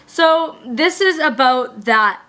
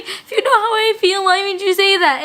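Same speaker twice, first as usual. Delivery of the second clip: hurt reply; 8 semitones higher than usual. Retold or imitated. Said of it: "the person's like".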